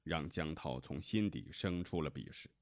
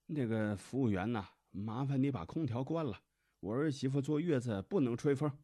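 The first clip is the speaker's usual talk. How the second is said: put-on loud, high-pitched demanding older relative; bossy mother-in-law; 7 semitones higher, 5 dB louder than usual. A narrator's reading. Mother tells the nurse to shut the air-conditioning, bossy and loud. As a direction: order the staff about in a raised voice. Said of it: "李永哲的妈妈指着护士说".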